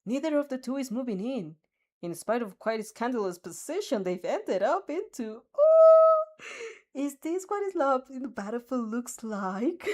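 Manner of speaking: loud hyped arena announcer with a squealing high ooh; stadium announcer. A narrator's reading. President Mike teasing the fighters to the stadium, loud announcer. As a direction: blast it through the stadium like a commentator. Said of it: "blasts through the stadium".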